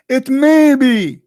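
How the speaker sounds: drawn-out, heavy stress on each word; slow emphatic quote. Real, not acted. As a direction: lean hard on every word. Quoting the key words slowly.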